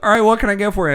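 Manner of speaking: put-on a teen doing Shaggy from Scooby-Doo. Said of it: "That's the best Shaggy from Scooby-Doo".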